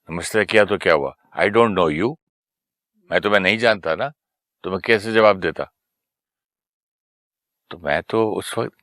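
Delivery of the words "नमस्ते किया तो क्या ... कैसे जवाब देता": mild retold anger. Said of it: "तो उनको गुस्सा आ गया".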